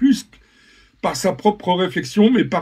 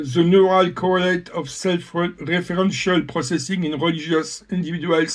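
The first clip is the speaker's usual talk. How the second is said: French-accented English. Real, not acted. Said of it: "pour mon accent, euh, monstrueux en langue anglaise".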